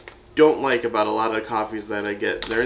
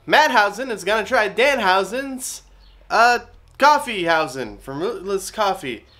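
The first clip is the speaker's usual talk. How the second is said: rough attempt at a Danhausen accent, higher pitched; playful mock Danhausen accent, pitched up and a bit louder; 7 semitones higher, 4 dB louder than usual. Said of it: "I was trying to do the accent a little better".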